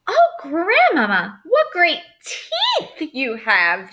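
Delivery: put-on girl squealing. A narrator's reading. Girl squealing at the wolf's teeth, high and slow. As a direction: squeal it out in fear. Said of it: "she squealed".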